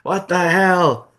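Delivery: loud, high outraged demand; authority figure confronting Sami, loud and high; angry Adam Pearce. Acted. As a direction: bark at Sami in disbelief. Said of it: "Adam Pearce comes out".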